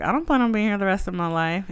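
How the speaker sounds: touch of defensive snap; mild snap back. Retold or imitated. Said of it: "snapped back a little bit".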